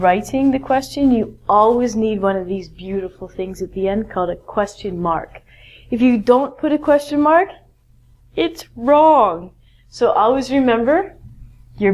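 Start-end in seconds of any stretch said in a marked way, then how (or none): 2.7-5.4 soft whisper. Real, not acted. 5.9-9.5 breathy stage whisper, a touch higher. Shown as a demonstration. Teacher whispering to students about question marks.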